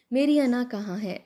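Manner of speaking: frantic, calling out for her; desperate call. Acted.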